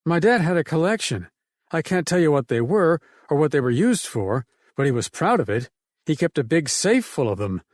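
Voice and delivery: lightly voiced woman recalling her dad; the speaker's voice. She is telling Ted about her father's guns, lightly voiced woman.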